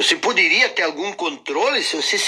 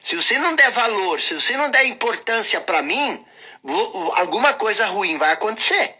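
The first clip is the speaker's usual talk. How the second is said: nagging inner voice; 4 semitones higher than usual. Acted. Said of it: "Essa voz diz o seguinte".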